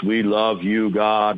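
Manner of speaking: flat monotone mock prayer. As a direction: say it in a bored monotone. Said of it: "like, in a monotone voice".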